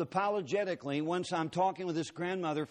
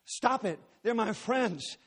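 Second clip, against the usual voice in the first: pleading cry; 5 semitones higher, slower than usual. Retold or imitated. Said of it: "And then she said".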